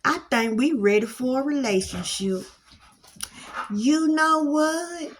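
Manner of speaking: life gently offering a chance; voicing life. Life personified inviting listener to a better position, coaxing. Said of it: "So life is like".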